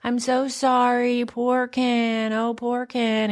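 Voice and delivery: mocking a heroine who coddles her ex; mocking sympathy. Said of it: "I was annoyed by was how she's like".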